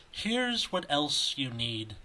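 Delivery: Michael Bavaro. Retold or imitated. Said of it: "the way he says".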